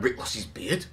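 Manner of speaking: imitating a shocked reaction, questioning rise on beard; mock disbelief. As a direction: act out hearing unbelievable news. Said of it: "I was like".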